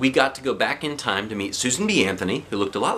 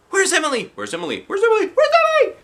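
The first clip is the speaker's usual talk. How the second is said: high louder repeated panicked calls; shouting; 6 dB louder, faster than usual. Acted. The whole class shouting for the missing girl. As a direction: build the cries up higher. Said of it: "everybody was shouting".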